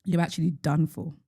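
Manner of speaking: deadpan mock advice; dry, understated sarcasm; sarcastic. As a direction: give awful advice as if sincere. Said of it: "I hope you hear the sarcasm".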